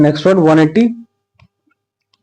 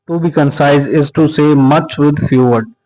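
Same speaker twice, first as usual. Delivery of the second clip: slow dictation; much slower than usual. Shown as a demonstration. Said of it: "slow dictation of definition".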